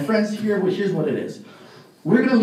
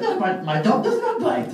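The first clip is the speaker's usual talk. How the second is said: higher-pitched clerk voice; hotel clerk; 5 semitones higher than usual. Acted. Clerk answers the inspector's repeated question, insistent. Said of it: "And the guy goes".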